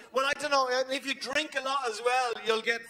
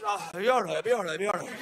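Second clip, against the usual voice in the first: mock soothing; 3 semitones lower, faster than usual. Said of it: "Don't we just go".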